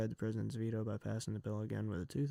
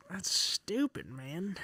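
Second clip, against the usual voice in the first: much higher, exasperated; frustrated outburst; 6 semitones higher, much slower than usual. Real, not acted. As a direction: spit out disbelief at the news. Ranting over news veto.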